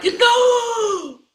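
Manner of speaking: long, high, loud howl; crowd's dismayed wail. Retold or imitated. Fans as the poor shooter shoots, wailing protest. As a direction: draw it out in mock horror.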